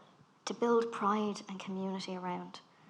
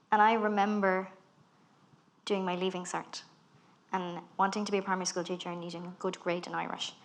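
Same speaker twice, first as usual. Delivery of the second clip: ordinary talk, nothing marked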